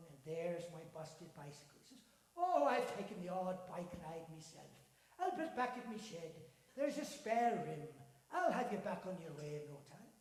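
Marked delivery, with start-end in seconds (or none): 2.4-10.1 a hint of a hearty Irish fellow, louder; cheery Irish-tinged man; lightly Irish old man. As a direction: marvel at the lad's luck. Voices Donald.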